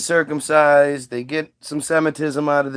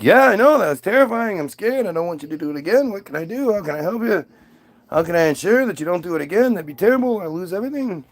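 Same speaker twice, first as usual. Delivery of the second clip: panicky; 2 semitones higher, faster than usual. Acted. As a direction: plead like a frightened man, rushing. Abraham panics about the flood.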